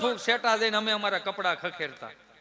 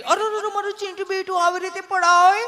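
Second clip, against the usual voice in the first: much higher, louder doting mom voice; fussing mother; 10 semitones higher, 5 dB louder than usual. Retold or imitated. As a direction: coo over the fallen child in a high fuss. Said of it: "mummy બિચારી".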